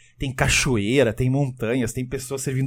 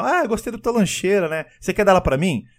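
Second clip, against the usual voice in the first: lightly voiced, higher-pitched coworker; higher voice, mildly mock-friendly; coworker asking a favour; 6 semitones higher than usual. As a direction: lightly put on a wheedling office colleague. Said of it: "o cara fala assim no final".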